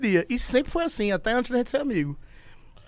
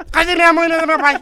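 puppy voice; 8 semitones higher, 6 dB louder than usual. Pretend. Voicing the puppy.

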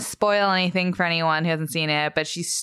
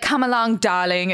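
higher-pitched, hammed-up British villainess accent; Cruella's British accent; 4 semitones higher than usual. Teasing Doug with the Cruella British accent. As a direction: put on a hard British accent, lightly theatrical. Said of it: "drop the Cruella accent".

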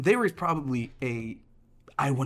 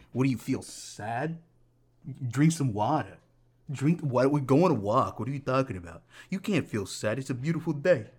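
lightly voiced dismissive immigrant parent; mildly mock an incredulous parent; a hint of an accented, scolding parent; ethnic parent. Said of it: "That's every, every ethnic, uh, parent".

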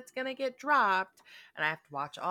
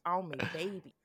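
laughing; 3 semitones lower, 13 dB louder, slower than usual. Retold or imitated. Quoting lyric laughing.

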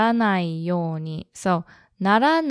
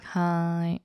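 flat hi; 5 dB quieter than usual. Shown as a demonstration.

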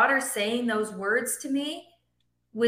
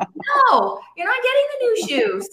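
mock stern mom, much higher and louder; stern parent; 13 semitones higher, 5 dB louder than usual. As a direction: play the strict mother putting her foot down. Acted parent refusing child.

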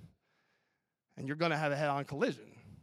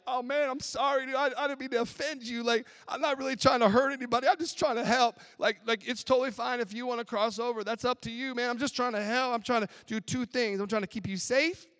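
gentle apologetic road line; 7 semitones higher than usual. Retold or imitated. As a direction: voice the yellow lines as meek and kind. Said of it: "the yellow lines are like".

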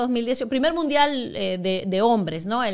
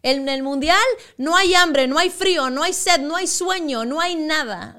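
pep talk; 3 semitones higher, 4 dB louder than usual. Retold or imitated. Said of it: "Me dice".

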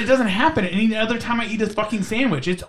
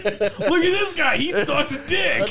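mock old-timer; 5 semitones higher, slower than usual. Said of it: "mocking old-timers' voice".

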